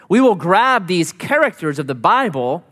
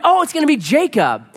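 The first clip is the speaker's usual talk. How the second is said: mock hopeful exclaim; 10 semitones higher than usual. Hopeful guess voiced.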